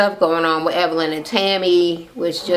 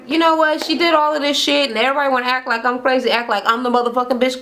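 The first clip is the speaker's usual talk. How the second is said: indignant rant; 5 semitones higher, faster than usual. Retold or imitated. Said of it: "So she's like".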